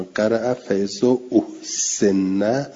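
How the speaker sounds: فاذا احسن slowly, hamza of احسن with a clear a-vowel, ahsana; with fath on the hamza. Shown as a demonstration. Teacher reading the Quranic variant aloud, slow and precise. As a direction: read فاذا احسن drawn out, the a after the hamza plain. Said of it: "به فتح".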